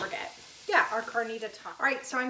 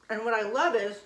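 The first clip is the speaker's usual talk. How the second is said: mouth full; 4 dB louder than usual. Real, not acted. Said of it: "sorry, I'm talking with my mouth full".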